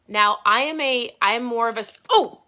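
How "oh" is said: surprised yelp. Real, not acted. Spilled ketones on pants.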